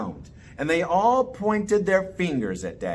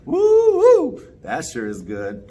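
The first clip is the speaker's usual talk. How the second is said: delighted; 7 dB louder than usual. Acted. Daddy delighted by cold soda.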